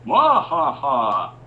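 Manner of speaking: high, loud villain cackle; evil laugh. Retold or imitated. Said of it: "he does an evil laugh".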